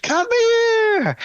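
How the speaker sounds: yelling after someone across the way; high-pitched shout to Ray; high calling out. Retold or imitated. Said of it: "being like".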